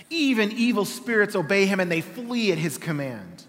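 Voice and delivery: measured, dignified Bible reading; scripture reading. Acted. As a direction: read the passage like a sermon text. Reads scripture aloud.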